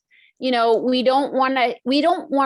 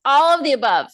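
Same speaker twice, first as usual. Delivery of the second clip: laughing; 3 semitones higher, 4 dB louder, faster than usual. Real, not acted. Laughs answering the question.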